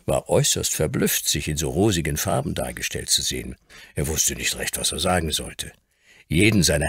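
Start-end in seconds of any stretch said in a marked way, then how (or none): none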